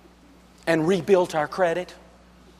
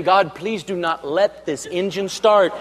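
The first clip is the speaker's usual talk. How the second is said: mock prayer; slower than usual. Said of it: "I am saying".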